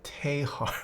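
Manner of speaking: mock Australian "Tehar"; Australian accent. Shown as a demonstration. Streamer testing their theory on a name, mock Australian. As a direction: have a go at an Australian vowel. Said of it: "Australian accent?".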